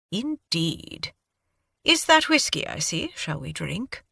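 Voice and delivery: light British lilt, playful offer; a touch of British accent, proposing whiskey. Acted. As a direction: invite a drink in a refined British accent. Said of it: "Your accent".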